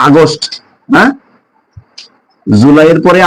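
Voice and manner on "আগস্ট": আগস্ট as "a-gost"; local Bengali pronunciation. Shown as a demonstration. Teacher giving the word we say, local pronunciation. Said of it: "আমরা বলি".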